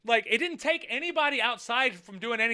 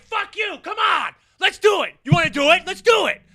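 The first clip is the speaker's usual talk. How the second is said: loud, high shouted dare; mock challenge to fight; 9 semitones higher, 10 dB louder than usual. Imitating himself daring another driver to fight, shouting. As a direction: yell it like you're itching to fight. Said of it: "Normally I'm the one that's like".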